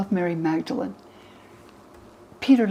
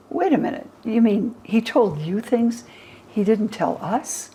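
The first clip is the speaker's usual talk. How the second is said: indignant disbelief; 4 semitones higher than usual. Retold or imitated. Peter doubting Mary's secret teaching, mock incredulous. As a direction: sputter it out like an offended Peter.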